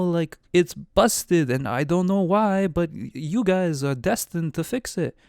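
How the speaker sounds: a giant rambling through the lore; cloud giant voice. Acted. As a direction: giant explaining the broken ordning to the party. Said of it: "Why did I do the voice?".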